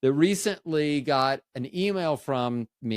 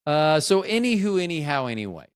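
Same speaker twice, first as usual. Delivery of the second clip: catchphrase; 2 semitones higher, 4 dB louder than usual. Acted. Running catchphrase.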